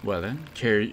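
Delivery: lightly voiced grandiose inventor courting an investor; inventor's sales pitch. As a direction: sell it with old-fashioned flourish.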